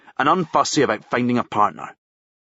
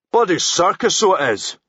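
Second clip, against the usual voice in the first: grumbling; 6 semitones higher than usual. Acted. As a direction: grumble it to the driver. Policeman grumbling to driver.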